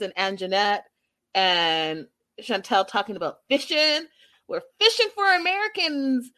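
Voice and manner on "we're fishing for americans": high mock voice of the women; lightly voiced schemer's boast; mock scheming quote. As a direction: quote them high and sly. Quoting the show's women scheming.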